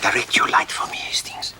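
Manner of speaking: hushed whisper, barely voiced. Detective whispering to Hastings while searching the cellar, hushed whisper. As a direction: keep it secret, breathe the words.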